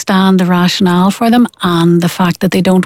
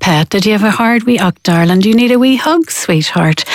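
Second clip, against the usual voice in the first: comforting mum. Retold or imitated. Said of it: "mum will change immediately in her posture and her tone".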